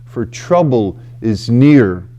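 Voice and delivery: measured reading of a lament; scripture reading. Acted. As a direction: read the psalm slowly, with weight. Reads the psalm aloud.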